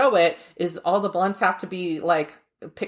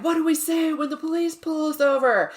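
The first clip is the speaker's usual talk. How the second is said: higher, hammed-up interviewer voice; ad lawyer asking; 8 semitones higher than usual. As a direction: pose it like a cheesy ad question. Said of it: "the guy in front is like".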